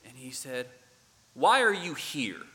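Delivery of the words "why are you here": loud, high incredulous Southern challenge; a Southern boss demanding why you came; Southern accent. Retold or imitated. Doug questioning the clumsy volunteer, loud mock Southern accent. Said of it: "this thick Southern accent".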